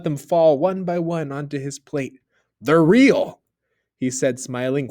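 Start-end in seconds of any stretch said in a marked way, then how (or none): 2.6-3.4 excited. A narrator's reading. Husband thrilled by gold.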